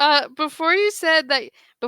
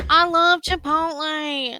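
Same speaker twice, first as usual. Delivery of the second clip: put-on little kid voice. Retelling a video of a kid eating a burrito: imitating a little kid. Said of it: "like a little four-year-old kid eating a burrito".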